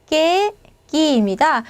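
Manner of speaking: 깨끼입니다 stretched slowly, ending on a rise; slow Spanish que ki. Shown as a demonstration. Teacher modelling 깨끼입니다 slowly for Spanish learners. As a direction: draw out 깨끼입니다 syllable by syllable.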